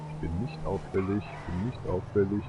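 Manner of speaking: hushed. Pretend. Sneaking past the police.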